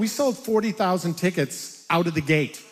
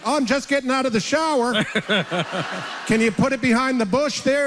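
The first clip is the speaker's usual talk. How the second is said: casual phone answer; 6 semitones higher than usual. Retold or imitated. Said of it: "And I'm like".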